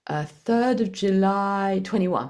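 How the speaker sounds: slow, halting, unsure of the date; hesitant, unsure answer. Retold or imitated. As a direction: drag it out like you're not quite sure. Mother gives daughter's birth date.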